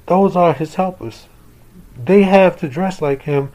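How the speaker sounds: put-on bickering young brothers; arguing kids. Brothers argue about Santa.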